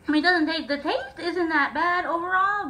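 laughing. Real, not acted. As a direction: chuckle through the words. Laughing through spicy food.

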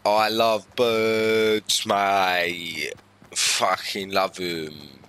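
loud, slow hammy lad; a hint of a slow blokey boast; laddish bloke.

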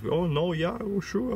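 high, breezy imitation of a young cashier; chatty young clerk. Imitating the young cashier chatting with the guy ahead, high and breezy.

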